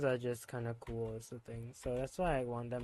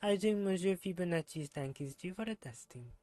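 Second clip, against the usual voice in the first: put-on reading the character's lines in a self-admitted terrible French accent; 3 semitones higher than usual. Streamer voicing a game character, bad French accent. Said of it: "my terrible French accent".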